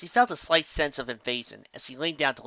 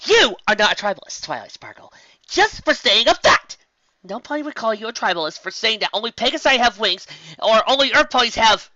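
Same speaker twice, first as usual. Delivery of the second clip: high, loud indignant protest; Twilight ranting at mirror; 9 semitones higher, 8 dB louder than usual. Acted. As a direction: insist hotly to your own reflection. Twilight scolds herself in mirror.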